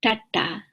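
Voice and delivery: "tata" with the tongue curled a little back; retroflex T. Shown as a demonstration. Teacher showing the underlined T, retroflex. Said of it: "So the tongue is, is a little bit back".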